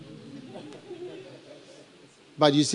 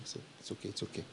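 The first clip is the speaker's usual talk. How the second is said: whispered so it's okay, it's okay; a soft whispered okay; 8 semitones lower, 24 dB quieter, faster than usual. Pretend. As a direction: breathe it out in a whisper. Mock forgiving whisper.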